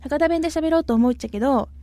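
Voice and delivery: a self-conscious try at a Hakata accent; a hesitant, unconvincing stab at Hakata dialect; attempted Hakata dialect. Shown as a demonstration. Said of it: "嘘くさいわ". (照れながら博多弁をまねる)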